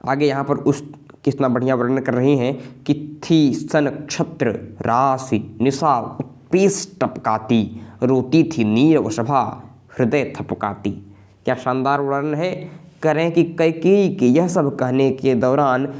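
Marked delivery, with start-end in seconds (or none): 3.2-10.9 slow, lingering verse reading; slow recited Hindi verse; slow poem recitation. Acted. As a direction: let each image sink in.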